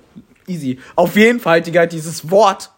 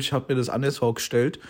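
softer imitated mumble; retold mumble; 4 semitones lower, 7 dB quieter than usual. Imitating a classmate in the front row, mumbled. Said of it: "so genuschelt".

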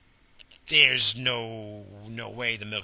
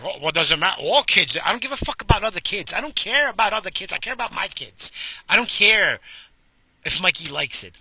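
higher, heated imitation of the wife; imitating wife; 3 semitones higher, 4 dB louder than usual. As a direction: play the wife getting worked up, louder at first. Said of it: "She's like".

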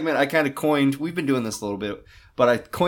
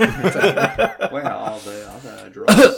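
Batman voice; 3 dB louder, much slower than usual. Acted. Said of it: "he might wanna work with that one".

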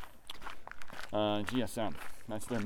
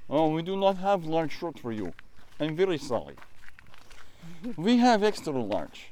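mock Russian accent; 3 semitones higher than usual. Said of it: "more Russian than Icelandic for the accent".

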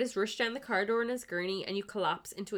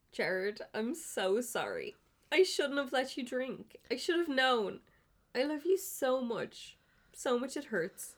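melodramatic confession, higher and louder as it builds; hammed-up love confession; 6 semitones higher, 5 dB louder than usual. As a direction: pour out your heart, overacting, to the sick boyfriend. Player voicing an emotional confession.

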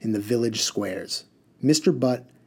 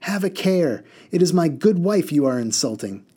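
raised, indignant defense of his wife; angry husband; 6 semitones higher than usual. A narrator's reading. Second mudman angrily defending his wife. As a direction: bristle at the insult. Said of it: "interrupted angrily".

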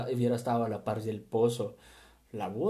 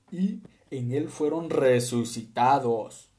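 emphatic reading; 6 dB louder, slower than usual. Real, not acted. Loud emphatic scripture reading.

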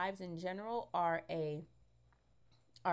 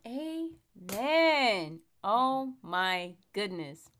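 excited amen; 3 semitones higher, 7 dB louder, much slower than usual. Real, not acted. Excited agreement with speaker's testimony.

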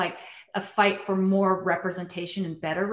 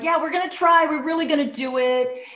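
mock eager promise; 7 semitones higher, 4 dB louder than usual. Mocking creators' empty promise.

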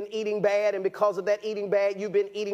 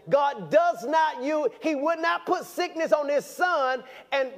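slow emphatic preaching; 3 semitones higher than usual. Real, not acted. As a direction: drive each word home, preacher style. Preaching at full force.

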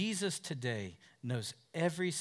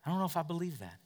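doubting listener; 4 dB quieter, much faster than usual. Retold or imitated. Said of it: "You're questioning".

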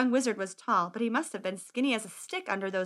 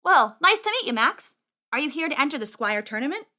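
bright greeting in a raised voice; friendly boy wizard; 4 semitones higher, 4 dB louder than usual. Acted. Wizard greeting squire in the mud, friendly. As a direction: start high and chummy.

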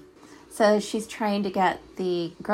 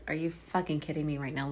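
quick, softer, muttered "Are you fucking kidding me right now?"; quick understated take on "Are you fucking kidding me right now?"; mock disbelief; 4 semitones lower, 4 dB quieter, much faster than usual. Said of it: "look on her face".

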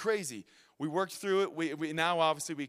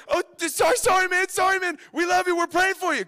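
high, loud rush of apologies; hammed-up shouted sympathy, pitched way up; loud mock apology; 12 semitones higher, 11 dB louder than usual. Friends apologizing to stranded callers before hanging up, loud mock apology.

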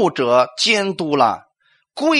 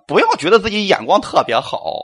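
ordinary delivery

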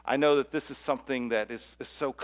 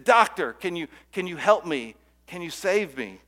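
higher, pleading call from the hole; calling up for help; 4 semitones higher, 5 dB louder than usual. Acted. Man stuck in a hole calls up to the doctor, pleading. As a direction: beg the doctor to pull you out.

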